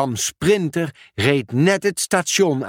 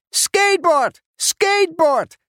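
very high squawking parrot voice. Acted. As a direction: screech it like a gleeful parrot. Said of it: "riep Benny". (schelle papegaaienkreet)

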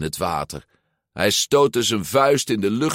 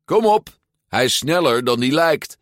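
higher, louder eager call; urging on; 7 semitones higher, 5 dB louder than usual. A narrator's reading. Boy egging his hesitant friend on, excited urging. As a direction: cheer a friend into it.

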